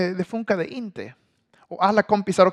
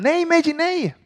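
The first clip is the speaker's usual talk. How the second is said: high, loud shout of no; kids yelling; 11 semitones higher, 4 dB louder than usual. Retold or imitated. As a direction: shriek to stop him. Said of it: "Så de säger".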